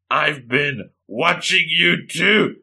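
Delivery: slow, drawn-out creepy confession; sinister confession. Acted. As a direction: stretch it out with mock menace. Sinister confession before ghoul bite.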